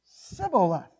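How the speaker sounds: SIBBOLETH with a long plain S opening; mispronounced shibboleth. Shown as a demonstration. Preacher checking his own attempt, SIBBOLETH with S. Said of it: "Did I get that right that time?".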